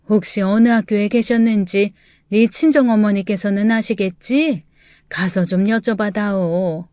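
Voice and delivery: trailing into a whisper; urgent hushed request; a mother-in-law asking under her breath. Acted. Mother-in-law urges quietly.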